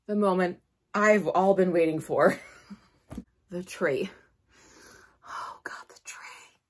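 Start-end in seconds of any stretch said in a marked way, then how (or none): 5.3-6.6 breathy whispered awe, close to tears; awed whisper. Real, not acted. Seeing the tree she's waited for, a tearful whisper. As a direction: barely voice it, overcome.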